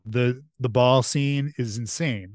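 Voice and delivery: ordinary talk, nothing marked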